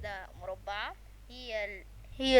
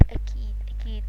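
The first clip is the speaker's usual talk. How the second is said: whisper; 6 dB quieter than usual. Real, not acted. Whispered to himself.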